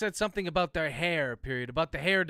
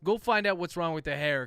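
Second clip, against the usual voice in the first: a touch louder, curt order; 2 semitones higher, 6 dB louder than usual. Acted. Chase ordering Dunbar off, a firm louder command. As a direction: snap out a command to a colleague. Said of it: "Chase ordered".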